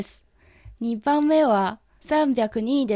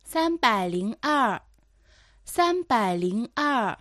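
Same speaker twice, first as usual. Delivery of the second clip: dictating; slower than usual. Shown as a demonstration. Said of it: "頑張ってそれを聞き取ってください".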